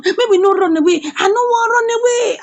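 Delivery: rising, high-pitched retold plea; acted alarm, climbing in pitch; scared plea. Retold scared plea about police.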